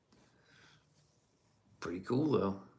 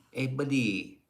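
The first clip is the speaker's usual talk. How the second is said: put-on buddy voice; 4 semitones higher, slower than usual. Streamer greets his buddy in chat, in a goofy put-on voice. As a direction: ham up the hello a bit.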